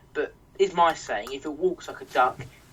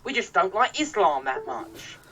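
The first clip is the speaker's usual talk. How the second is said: put-on innocent voice, higher; mock Britain First; 4 semitones higher than usual. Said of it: "They claim they're not racist".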